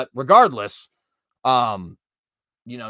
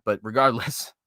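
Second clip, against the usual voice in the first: usual speaking voice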